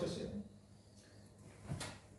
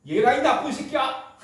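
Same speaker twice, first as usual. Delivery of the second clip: a higher, louder insult hurled in jest; mock cursing; 6 semitones higher, 4 dB louder than usual. Preacher imitating an angry man cursing Peter, mock fury. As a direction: spit out the curse half-seriously.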